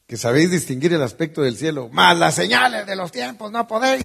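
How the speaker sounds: high-pitched, loud, fast shouting.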